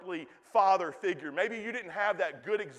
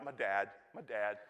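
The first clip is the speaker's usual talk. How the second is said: laid-back West Coast accent, lower and softer; West Coast sound; 9 semitones lower, 6 dB quieter than usual. Shown as a demonstration. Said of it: "Kinda get that sort of West Coast sound".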